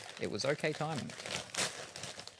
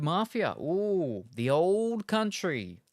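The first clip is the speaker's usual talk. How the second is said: slow, louder trailer-style title; dramatic title; 5 semitones higher, 5 dB louder, much slower than usual. Real, not acted. Unboxing a gifted game, dramatic title read. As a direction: sell it like a movie trailer.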